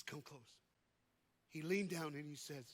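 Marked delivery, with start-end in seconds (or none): 0.0-0.4 very soft, confidential aside; low-volume, secretive summons; hushed. Retold or imitated. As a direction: draw the listener in quietly. Manager draws fighter in confidentially.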